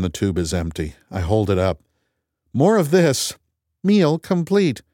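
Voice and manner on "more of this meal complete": high, slow robotic voice; computer voice. Acted. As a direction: speak like a flat machine. Computer voice answers.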